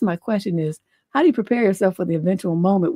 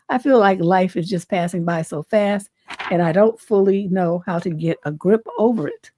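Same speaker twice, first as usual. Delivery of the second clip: normal talking voice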